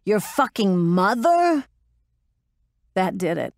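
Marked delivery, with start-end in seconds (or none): 0.1-1.6 slow, higher roared jab; roaring insult. Acted. Metz roaring an insult at the pilot, roaring. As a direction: roar the insult to sting her. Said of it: "she roared".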